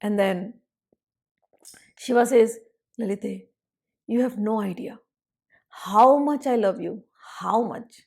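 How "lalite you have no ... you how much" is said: tender devotion. Acted. Shiva voiced speaking lovingly.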